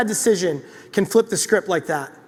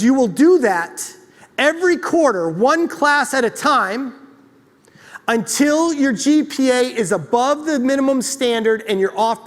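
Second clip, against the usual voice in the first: soft-spoken kind mentor. Retold or imitated. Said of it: "Doctor Rob's a soft-spoken, very kind Canadian man".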